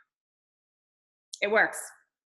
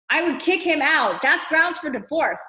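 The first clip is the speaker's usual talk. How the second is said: mock outrage; 5 semitones higher than usual. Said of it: "I'm just kidding".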